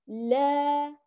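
لا with an open, straight long aa; upright alif. Shown as a demonstration. Teacher contrasts two sounds, this one open and upright. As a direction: hold لا as a pure open "laa". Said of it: "لاحظ الفرق بين الصوتان".

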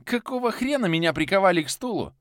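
very high furious shout; angry yell. Acted. The chained hero yells at Viktor in outrage.

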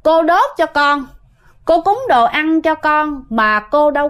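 a hint of a small girl spirit; female spirit voice. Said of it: "chuyển qua giọng nữ".

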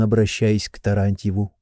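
ordinary delivery, nothing marked

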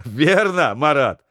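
laughing through the words. Acted. Sailor backing up the joke, laughing. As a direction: chime in with a laugh. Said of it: "подхватил со смехом Матвеев".

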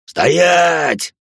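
sharp high yell to freeze him; shouted order. Acted. Hunter yelling at the masked boy to stop. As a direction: bark it like a hunter with a gun. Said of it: "Тут же орут они".

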